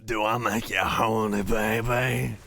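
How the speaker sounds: raspy smoker's voice; a chain smoker's gravelly purr. Pretend. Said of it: "seven packs a day cigarette voice".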